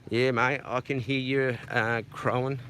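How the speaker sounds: breathless after the climb; panting between words; out of breath. Real, not acted. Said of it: "bit out of breath".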